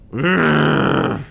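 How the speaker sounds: loud, high monster growl. Retold or imitated. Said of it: "the monster goes".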